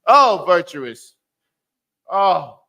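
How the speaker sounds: loud, drawn-out praise; fervent cry. Real, not acted. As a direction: call it out like a hallelujah. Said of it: "No attitude".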